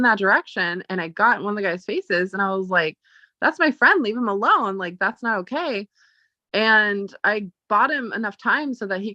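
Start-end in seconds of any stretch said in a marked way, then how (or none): 3.4-5.9 confronting. Retold or imitated. Confronting guy defending friend.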